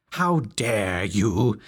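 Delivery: mild slow bellow; a drawn-out mock bellow. A narrator's reading. Pious leader confronting the saloon, mild slow bellow.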